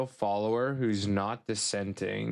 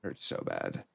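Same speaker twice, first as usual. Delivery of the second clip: mock groaning pain; 7 dB quieter than usual. Grieving failure.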